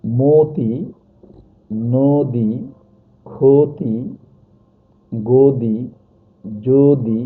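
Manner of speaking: মতি, নদী, ক্ষতি, গদি, যদি each with a round o in the first syllable; altered o vowel. Shown as a demonstration. Teacher lists examples for students, first vowel pronounced o. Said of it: "ঠিক এভাবে".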